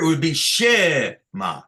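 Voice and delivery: shema with the weight on the first syllable she; stress on first syllable. Shown as a demonstration. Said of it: "If it was here".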